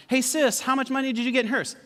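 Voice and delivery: high-pitched brotherly question; teasing call-out. Retold or imitated. Brother asks his sister about her mailbox money, piping up. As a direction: pipe up innocently to put her on the spot.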